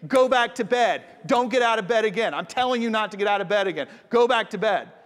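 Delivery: mock-stern parent sending a kid back to bed; frustrated parent. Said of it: "Eli, like, getting frustrated".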